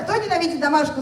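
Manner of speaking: first, milder go at rousing the audience; rallying question. Pretend. Host translates the question for the audience, rallying. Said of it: "Давайте ещё раз попробуем".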